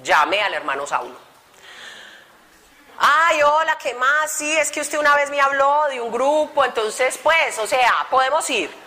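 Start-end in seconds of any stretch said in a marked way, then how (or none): 3.0-8.7 sheepish high call. Retold or imitated. Awkward call asking to go.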